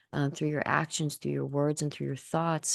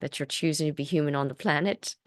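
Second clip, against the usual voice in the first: seance medium; 2 semitones higher, 3 dB louder than usual. Acted. Channeled entity speaking through Kim.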